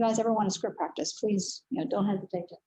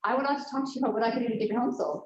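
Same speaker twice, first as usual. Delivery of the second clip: rattled-off script; much faster than usual. Retold or imitated. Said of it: "I read verbatim".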